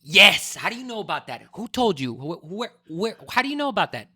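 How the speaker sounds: shocked and excited, pitch jumping up; surprised. Real, not acted. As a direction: blurt it out in disbelief. Surprised he knows about it.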